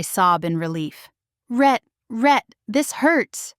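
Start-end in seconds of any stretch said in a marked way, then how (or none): 1.5-3.5 higher, strained cry of pain. A narrator's reading. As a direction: call out to him through the pain. Mother in labour crying out.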